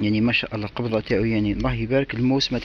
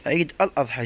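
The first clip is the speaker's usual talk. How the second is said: lightly presented, higher-pitched shop welcome; raised, lilting advert opening; promo intro; 3 semitones higher than usual. Acted. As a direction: greet the followers like a store announcer. Scripted promotional greeting to viewers.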